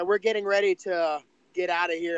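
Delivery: ordinary delivery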